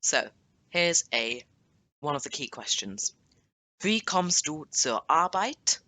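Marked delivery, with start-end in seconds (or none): 3.8-5.8 slow model question. Shown as a demonstration. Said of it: "teacher models key question".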